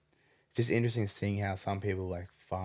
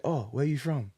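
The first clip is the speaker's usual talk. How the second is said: high, eager hawker calling out; mock the sellers' pushy welcome; hammed-up street vendor greeting; market seller voice; 7 semitones higher, 4 dB louder than usual. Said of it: "they'll be like".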